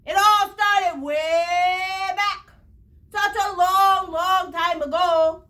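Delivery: slow, drawn-out storybook opening; storybook slow telling. A narrator's reading. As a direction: stretch it like the start of a long tale. Once-ler begins his tale.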